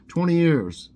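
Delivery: loud, high punchline delivery; judge's punchline. Acted. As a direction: deliver the sentence like a smug judge. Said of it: "recalled the judge".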